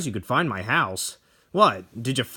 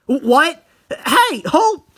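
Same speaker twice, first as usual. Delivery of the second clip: shouting after her; 13 semitones higher, 8 dB louder, slower than usual. Acted. Painter calls after Tomie leaving.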